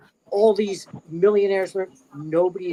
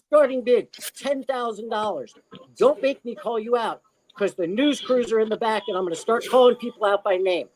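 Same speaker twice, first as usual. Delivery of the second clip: retold auctioneer's demand, higher pitch; Robin Williams; 5 semitones higher than usual. Guest retells comic threatening to name bidders, insistent. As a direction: imitate a comic pressuring bidders. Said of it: "And I just said".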